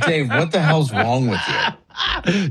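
slow laughing disbelief; incredulous friend. Retold or imitated. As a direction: ask it in stunned disbelief. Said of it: "You'd be like".

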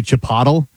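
"Chipotle" as chi-POT-ul; wrong pronunciation. Shown as a demonstration. Co-host admitting how he says it, mispronounced. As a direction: rhyme "Chipotle" with bottle. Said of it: "I say".

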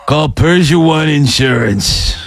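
put-on weary ninety-year-old doing ads; old man ad voice. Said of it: "I'm ninety".

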